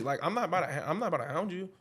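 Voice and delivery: chuckling through the words; laughing. Real, not acted. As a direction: laugh as you say it. Laughing while explaining.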